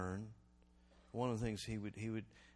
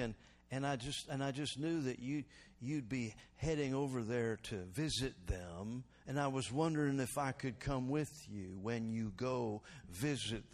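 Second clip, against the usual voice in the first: gracious elder. Retold or imitated. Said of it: "he'd say it like this".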